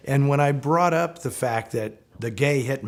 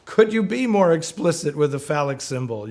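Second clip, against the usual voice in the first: mock amused friend; 4 semitones higher, 3 dB louder than usual. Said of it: "and said".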